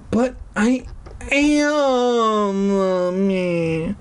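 put-on high, pleading little girl voice; whiny girl pleading. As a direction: beg mommy to believe her.

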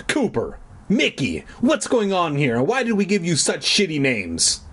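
lightly acted exasperated parent; mildly stern parent breaking up a fight; scolding parent.

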